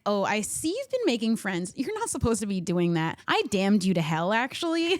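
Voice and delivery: lightly sassy, scolding put-on voice; sassiest voice. Streamer voicing the game's villain for her friend, sassy. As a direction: play her as a mock-disapproving boss with attitude. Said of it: "I give her the sassiest voice".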